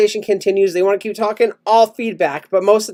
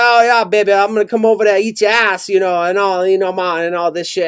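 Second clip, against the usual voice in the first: Jamaican driver on phone. Retold or imitated. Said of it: "giving you guys the immersive experience".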